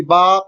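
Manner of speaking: "با" with a long, held "aa"; drawn-out vowel. Shown as a demonstration. Teacher demonstrating the alif sound, "با" stretched long. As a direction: draw out the vowel in "با". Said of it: "اس کو کھینچ کر پڑھتے ہیں".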